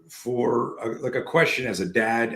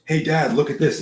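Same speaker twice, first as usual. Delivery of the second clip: put-on higher-pitched kid calling to Dad; excited young son; 6 semitones higher, 4 dB louder than usual. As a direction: play an eager child calling his father. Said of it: "he goes".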